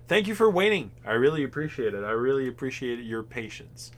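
hammed-up call center politeness; customer service voice. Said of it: "Replying to you guys like I'm at work".

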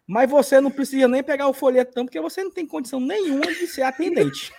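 high scornful woman voice; mocking the recruiter. Retold woman rejecting him harshly.

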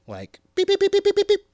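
high loud electronic beeps; watch beeping. Acted. Mimicking his watch alerting him, loud beeps. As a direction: beep like a smartwatch alarm.

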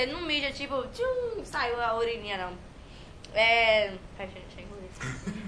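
talking with a mouthful of food; mouth full. Real, not acted. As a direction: speak through a mouthful of food. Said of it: "Falando de boca cheia".

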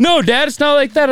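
put-on high, whiny teen protest; mock whiny daughter. Daughter protesting to her dad about her lunch date, high whine. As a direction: whine like an annoyed teen girl. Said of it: "daughter retold".

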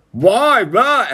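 high-pitched mock whine of protest; imitated kid protest. Child protests at dad's rule.

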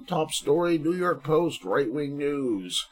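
mock news announcer. Host announcing the right-wing headline, mock newscaster. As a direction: announce it like a top story.

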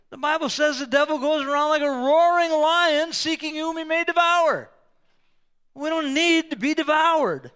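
loud, high, ringing preacher voice; fiery sermon delivery; preaching at full force. Acted. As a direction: proclaim it to the congregation.

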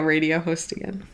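slight Midwestern accent slipping out. Real, not acted. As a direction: let a little Midwestern accent creep in. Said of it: "I sounded so Midwestern".

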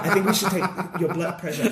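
repeating her line through a laugh; laughing quote. Retold or imitated. Replaying the heroine's deadpan line through laughter. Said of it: "because he's had a heart attack".

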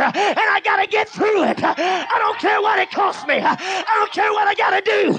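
shouted, high-pitched preaching climax, building fervour; preaching at full force. Acted. Preacher rallying the church to break through, shouting. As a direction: drive it home to the congregation, full voice.

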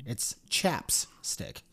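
whispered correction; whispering. Real, not acted. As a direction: breathe it out.

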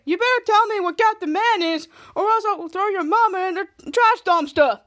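high-pitched mock threat; threatening. Charlotte acting out Frank threatening Jasper, hammed-up menace.

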